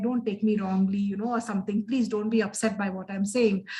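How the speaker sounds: smooth it over so nobody gets upset; appeasing. Shown as a demonstration. Professor showing how she softens her point, mildly appeasing. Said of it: "trying to sound a bit appeasing".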